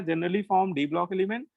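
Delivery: slow word-by-word dictation pace. Shown as a demonstration. Teacher dictating a note to his class, slow and deliberate. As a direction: read it out slowly for note-taking. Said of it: "तो ये लिख लेना".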